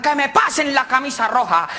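acted shouted command; captain's shout. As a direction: order the crew as their captain. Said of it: "gritó el capitán".

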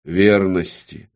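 slow, firm single word; dictating an oath. A narrator's reading. Demon dictating the oath word, slow and firm. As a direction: pronounce it solemnly for repeating. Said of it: "Она должна была повторять".

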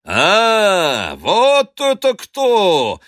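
high, slow, loud jolly call; friendly shout. Acted. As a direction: hail an old rival with a cheerful loud shout. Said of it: "дружелюбно закричал Остап".

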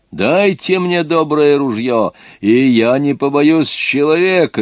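выше и громче, медленно; заяви решительно и весомо; громкое заявление. Acted. Крестьянин хвастливо заявляет. (крестьянин хвалится смелостью, громче и выше)

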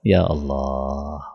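low, soft and very slow "ya Allah"; drawn-out sigh. Real, not acted. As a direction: breathe it out slowly in grief. Sermon, sighing exclamation.

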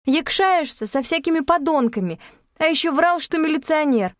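высоко и громче, с обвинением; отчитать его в ярости; гневно. A narrator's reading. Героиня ругает Багрова. (героиня гневно обвиняет Багрова во лжи)

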